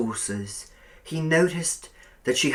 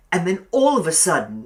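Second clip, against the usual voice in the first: fast, higher eager voice; eager young Billy; 6 semitones higher, 7 dB louder, faster than usual. A narrator's reading. Billy trying again to finish his story, eager. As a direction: rush to finish the thought.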